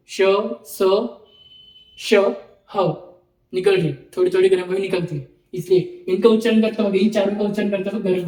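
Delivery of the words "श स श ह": श, स, ह said with breath pushed out; breathy demo sounds. Shown as a demonstration. Teacher doing a practical for students. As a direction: exhale audibly on each sound. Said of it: "अभी एक बार practical करो".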